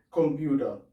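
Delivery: "computer" with a hard K and German vowels; German word demo. Shown as a demonstration. Teacher modelling C as K in German. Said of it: "se pronuncia como una K".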